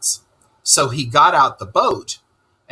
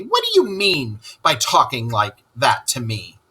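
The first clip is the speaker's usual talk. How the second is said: angry; 4 semitones higher than usual. Acted. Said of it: "said the Toad very angrily".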